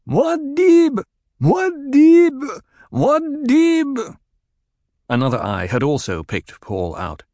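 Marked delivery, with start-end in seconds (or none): 0.1-4.2 high, loud chanted war cry; battle cry. A narrator's reading. Fedaykin rallying to Paul, ringing battle cry. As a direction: roar his name to the cavern. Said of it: "his battle cry was lifted to echo".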